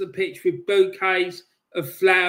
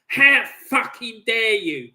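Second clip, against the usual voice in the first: outraged; 5 dB louder than usual. Real, not acted. Fan rages at disrespecters.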